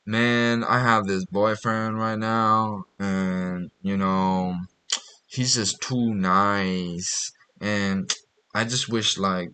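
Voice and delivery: soft, slow confiding girl voice, barely put on; a hint of a girl confessing quietly; softly mimicking a girlfriend's complaint; lightly imitated girl. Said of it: "this girl's like".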